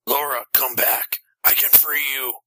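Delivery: father calling his daughter back; desperate calling out. A narrator's reading. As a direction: plead with her in a contained stage cry. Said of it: "Matt screamed".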